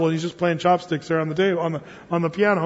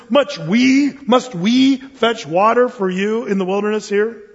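angry rebuke; 3 semitones higher, 4 dB louder, slower than usual. Retold or imitated. Moses scolds the people before striking rock, indignant. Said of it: "he yells, and he says".

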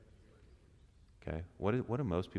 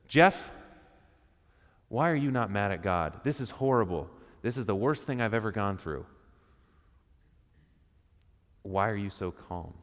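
imitating livid coworker; 2 semitones higher, 5 dB louder than usual. Livid coworker confronting Jeff over coffee, imitated loud outburst. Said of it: "And man, he is livid".

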